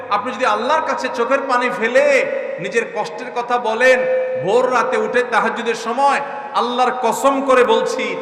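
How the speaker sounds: loud, high, slowing oath; impassioned preaching. Real, not acted. Preacher swearing to the brothers, loud and high. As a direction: swear it to the crowd.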